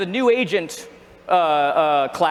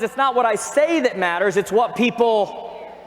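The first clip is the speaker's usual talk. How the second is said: slow emphasis; slower than usual. Shown as a demonstration. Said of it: "Communication one oh one says".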